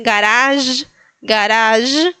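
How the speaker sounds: garage ending in a long zh; French zh sound. Shown as a demonstration. Teacher borrowing a French example, held final zh. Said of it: "ese sonido lo tienen en francés".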